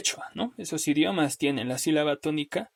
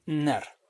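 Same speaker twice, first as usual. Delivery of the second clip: "nar" said as an isolated stressed syllable; stressed syllable alone; 4 dB quieter than usual. Shown as a demonstration. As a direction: set "nar" apart as the accented beat. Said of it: "le doy mayor golpe de voz".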